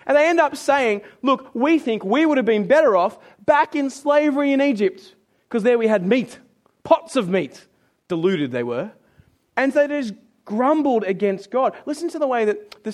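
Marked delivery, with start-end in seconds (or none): 1.2-7.7 acted complaint, high at first, then easing down; mock grumbling. Israelites hanker after slavery in Egypt, mock grumbling. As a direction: make the deluded case for going back. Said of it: "they grumbled some more".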